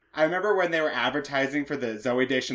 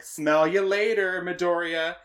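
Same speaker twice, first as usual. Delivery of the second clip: slow, higher smug rival taunt; Gary voice; 4 semitones higher, slower than usual. Retold or imitated. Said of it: "He is for sure the Gary of this season".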